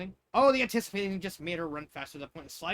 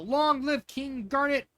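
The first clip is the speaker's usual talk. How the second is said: slow, high, louder cheer; crowd cheer; 8 semitones higher, 7 dB louder, much slower than usual. Acted. Civilians cheering their king, slow high cheer. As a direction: hail the hero.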